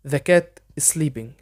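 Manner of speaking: very slow, careful English for learners to copy; slow dictation pace; slow model sentence. Shown as a demonstration. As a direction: spell it out slowly so students can repeat. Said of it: "حاول تقلدني".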